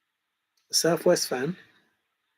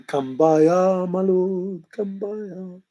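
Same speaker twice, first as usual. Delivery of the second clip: Yoda-style phrasing; 3 semitones higher, 4 dB louder, slower than usual. Retold or imitated. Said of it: "That's how my mind thinks".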